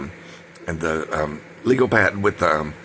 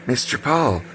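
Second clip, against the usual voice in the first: higher, patronizing sing-out; imitated condescension; 4 semitones higher, slower than usual. Boss patronizing her worker by name, imitated condescending compliment. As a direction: say it like a mock pat on the head. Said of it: "condescending, complimentary".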